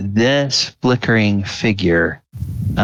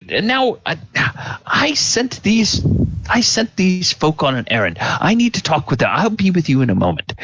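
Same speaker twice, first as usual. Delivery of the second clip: high, hurried wizard voice; impatient old mage; 10 semitones higher, faster than usual. Acted. Old mage putting off giant and dragon, brisk and impatient. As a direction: start high and halting, then rush through it.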